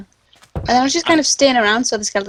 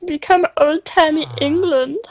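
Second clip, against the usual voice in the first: put-on vaguely German accent; 4 semitones higher than usual. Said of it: "That was vaguely German".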